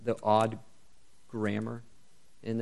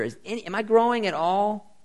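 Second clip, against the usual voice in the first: anxious self-questioning; 7 semitones higher, 7 dB louder than usual. Pretend. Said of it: "You might wonder".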